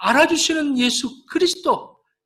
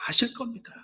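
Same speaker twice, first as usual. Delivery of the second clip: whispered confession; 5 dB quieter than usual. Acted. Peter's humble whispered answer.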